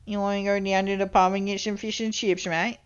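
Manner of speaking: mock British pub-goer, "mate" tipped up at the end; lightly hammed-up British bloke; British accent. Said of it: "You know, like that".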